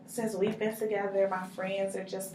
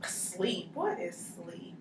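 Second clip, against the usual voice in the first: sarcastic; 6 dB quieter, slower than usual. Acted. Client asked about sleep.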